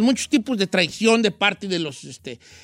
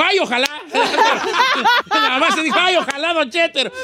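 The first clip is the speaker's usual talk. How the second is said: giggly quote; 7 semitones higher than usual. Retold or imitated. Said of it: "Doña Lito y dijo".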